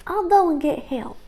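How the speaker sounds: high, lightly voiced young sister; reassuring sister. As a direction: comfort her brother gently. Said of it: "Liza told him".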